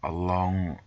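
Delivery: measured storybook reading of the travel tale; story narration. A narrator's reading. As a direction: read it like an adventure novel. Reads game story narration.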